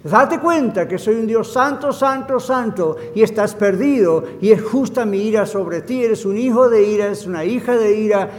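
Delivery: emphatic preacher voicing God; God's stern warning. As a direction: deliver a forceful ultimatum, building at the end. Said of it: "es para decir".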